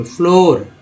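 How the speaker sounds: फ्लोर with a long "oh" vowel; double O as oh. Shown as a demonstration. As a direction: say फ्लोर clearly, holding a rounded "oh". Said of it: "ओ के रूप में".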